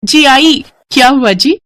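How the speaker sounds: high, eager reply to her husband; answering a call. Acted. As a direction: call back that she's coming. Wife answers husband's call from afar. (पति की पुकार का जवाब)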